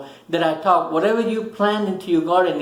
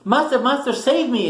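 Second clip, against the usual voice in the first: a touch of panic, pitched higher, calling for help; mildly frightened plea; 5 semitones higher than usual. Retold or imitated. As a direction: retell the sinking man's plea with a hint of fear. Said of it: "getting scared and frightened".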